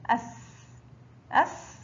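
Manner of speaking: "أس" with no vowel after the s; sukun on seen. Shown as a demonstration. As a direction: say "أس" ending on a sustained s. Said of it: "حرف السين فوقه سكون ينطق". (نطق "أس" بسين ساكنة)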